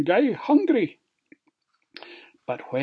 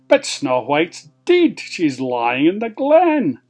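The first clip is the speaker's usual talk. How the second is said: loud, insistent objection; queen's raised-voice protest; 2 semitones higher, 6 dB louder than usual. Acted. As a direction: contradict the mirror in disbelief. Queen disbelieves the mirror.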